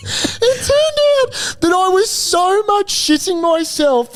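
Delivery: high, slow, laugh-strained voice; laughing while talking. Real, not acted. Confessing the punchline to his friend, cracking up. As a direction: struggle to finish through real laughter. Laughing too hard to continue.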